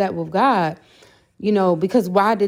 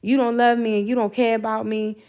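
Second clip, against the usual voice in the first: retold angry rant; 3 semitones higher than usual. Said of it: "I told him I was pissed".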